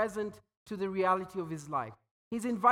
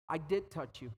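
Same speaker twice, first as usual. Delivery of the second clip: timid confession; 6 semitones lower, 8 dB quieter than usual. Acted. Healed woman confesses to Jesus.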